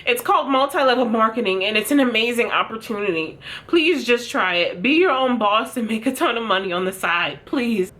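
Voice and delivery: pleading MLM seller, lightly voiced; whiny begging, hammed up a little; imitating a tearful seller begging viewers to buy; mock crying hun.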